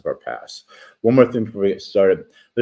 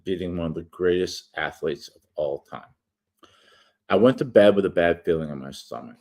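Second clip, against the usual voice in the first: steady read-aloud narration; reading an essay. Acted. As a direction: read the article aloud, measured. Reads his article aloud.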